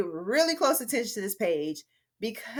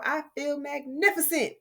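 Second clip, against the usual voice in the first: higher-pitched, smiling delight; 5 semitones higher than usual. Shown as a demonstration. Teacher showing how a descriptive word spreads cheer, smiling. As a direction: say it with a smile, savoring "magnificent". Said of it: "they might start smiling just like I did".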